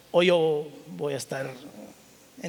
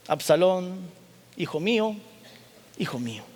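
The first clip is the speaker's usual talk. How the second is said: a touch of mournful crying out; understated grief of a father; mild grieving lament. Acted. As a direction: call the lost son, gently grieving. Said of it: "y lloró y yendo decía".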